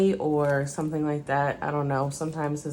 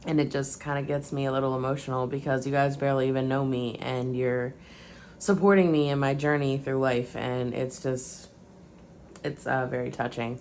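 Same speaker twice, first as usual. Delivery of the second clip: choked up, fighting back tears; getting emotional; 3 semitones lower than usual. Real, not acted. Thanking viewers for their support, voice softening with emotion. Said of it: "I don't know why I'm getting emotional".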